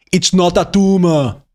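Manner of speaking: slow mock Austrian accent; thick Austrian movie-quote delivery; Arnold Schwarzenegger. Streamer quotes a film star for chat, heavy Austrian accent.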